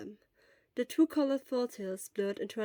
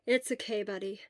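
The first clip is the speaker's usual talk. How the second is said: soft response. Acted. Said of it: "Hisashi's soft response".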